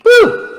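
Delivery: high, loud cheer; joyful whoop. Real, not acted. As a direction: let out a happy woo. Celebrating end of the story.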